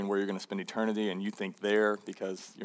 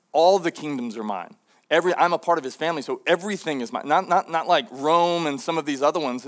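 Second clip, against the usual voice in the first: rising to loud, fast, high fervour; fervent dismissal; 4 semitones higher, 6 dB louder than usual. Retold or imitated. Jesus brushing off Satan's offer of kingdoms, loud and fervent. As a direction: build from dismissive to triumphant proclaiming.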